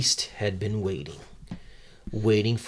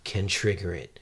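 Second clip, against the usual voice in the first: dramatic narrator. Acted. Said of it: "so the narrator says".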